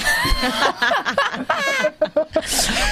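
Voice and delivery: high squealing laugh; high burst of laughter. Real, not acted. Guest cracks up at host's accent joke, high laugh.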